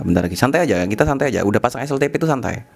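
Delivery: talking around a cigarette; cigarette in mouth. Real, not acted. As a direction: lips holding a cigarette while speaking. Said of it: "sambil ngerokok ya". (bicara sambil merokok)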